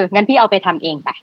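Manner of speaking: sarcastic retort. Retold or imitated. Quoting sarcastic employee to boss.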